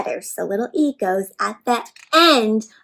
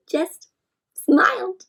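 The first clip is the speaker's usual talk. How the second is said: whisper; 5 semitones higher, 4 dB quieter, slower than usual. A narrator's reading. Narrator's hushed word.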